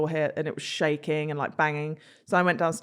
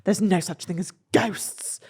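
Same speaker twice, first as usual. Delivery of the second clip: mum's whispered dismissal. Retold or imitated. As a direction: imitate mum in a breathy whisper. Mum dismissing ghosts, retold.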